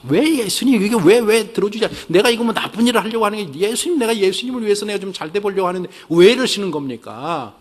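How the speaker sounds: 높고 답답하게 따지는 기도; 예수님께 원망하듯 높여 따지기; complaining prayer. Shown as a demonstration. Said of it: "원망을 하십시오". (불평하는 기도 흉내)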